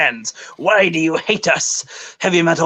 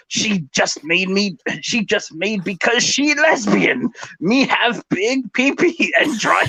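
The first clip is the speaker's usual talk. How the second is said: hammed-up caveman troll, half laughing; different voice; 3 semitones higher than usual. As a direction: keep the mock brute going through giggles. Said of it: "I need to do this in a different voice".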